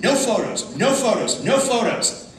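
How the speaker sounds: mock officious shouting; imitated stern order. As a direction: fire off each ban loudly, same falling tune. Airport staff forbidding photos.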